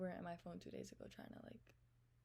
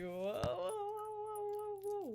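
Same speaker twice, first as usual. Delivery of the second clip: loud drawn-out shocked whoa; 8 dB louder, much slower than usual. Retold or imitated. Reading his shocking message, loud stunned whoa.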